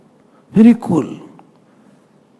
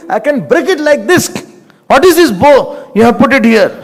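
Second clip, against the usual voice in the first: heated boast; 3 semitones higher than usual. Retold or imitated. Acts Lakshman's heated boast about bow.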